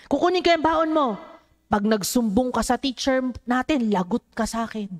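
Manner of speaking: preacher imitating a bully's taunt. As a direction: lightly play the schoolyard bully taking lunch money. Preacher voices a school bully.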